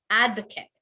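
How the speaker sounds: Advocate as AD-vuh-kit; ending on t. Shown as a demonstration. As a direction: clip nothing but the last vowel of Advocate. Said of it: "You want to end on the T".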